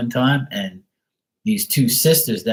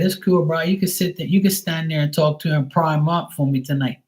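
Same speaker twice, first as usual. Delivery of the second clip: airy and raised, teasing the guy; breezy and amused; 7 semitones higher than usual. Retold or imitated. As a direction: chill bro voice, playful. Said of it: "I said".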